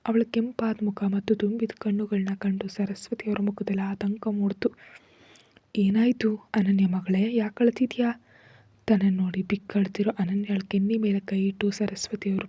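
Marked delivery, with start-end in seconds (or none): 5.8-8.2 affectionate concern. Acted. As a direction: gently coax the crying girl to speak. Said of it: "ಪ್ರೀತಿಯಿಂದ ವಿಚಾರಿಸಿದ್ರು".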